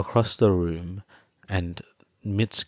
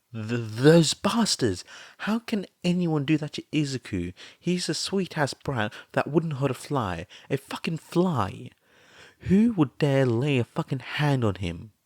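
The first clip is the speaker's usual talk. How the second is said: high, loud outraged ranting; furious yell; 7 semitones higher, 4 dB louder than usual. A narrator's reading. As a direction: spit out the fury at whoever hurt him. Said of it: "Mitsuki yelled".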